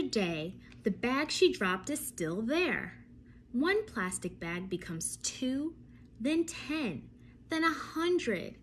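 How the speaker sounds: lively storybook reading with vivid pauses; reading to children. Acted. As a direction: read it to a class of little ones.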